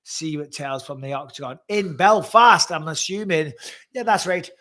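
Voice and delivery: imitated Northern Irish accent. Trying out an accent for the Belfast show, Northern Irish accent. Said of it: "your Northern Irish one isn't that bad".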